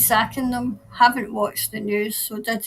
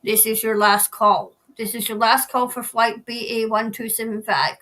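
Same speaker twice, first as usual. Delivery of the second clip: airport announcer. Pretend. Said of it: "I was reading it as in the".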